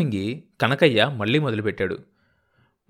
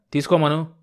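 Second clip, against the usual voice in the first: bellowing; 4 semitones higher than usual. A narrator's reading. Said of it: "రంకలు వేశాడు".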